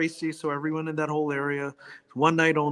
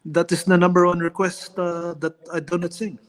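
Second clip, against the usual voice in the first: Manny Pacquiao impression; 3 semitones higher than usual. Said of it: "you gotta do the Filipino, uh, Manny Pacquiao, uh, impersonation".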